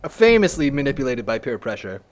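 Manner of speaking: dry, low note-taking voice. Pretend. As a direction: read it out like a memo, again firmer. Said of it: "Takes note for future reference".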